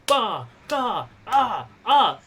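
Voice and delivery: vocalised punch impacts; short falling "bah" for each blow; punch noises. Acted. Game master imitating blows as she punches him in the face, punch sounds. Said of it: "it's like".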